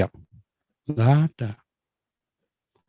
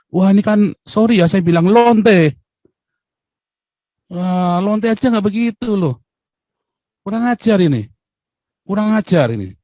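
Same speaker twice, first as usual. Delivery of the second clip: furious rant; 6 semitones higher than usual. Real, not acted. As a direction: let the outrage boil over. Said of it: "emosi bener itu ya".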